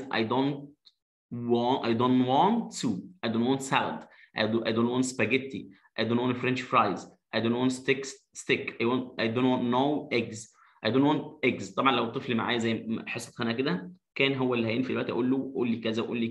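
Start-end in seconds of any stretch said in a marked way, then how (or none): 0.0-11.7 slow, clear negative drill. Shown as a demonstration. Teacher drilling negatives for children, slow. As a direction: spell out each line slowly. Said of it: "طب أنا مش عايز".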